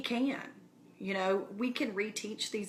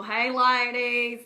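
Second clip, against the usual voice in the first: excited greeting; 3 semitones higher, 8 dB louder, slower than usual. Real, not acted. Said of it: "greeting viewers joining live".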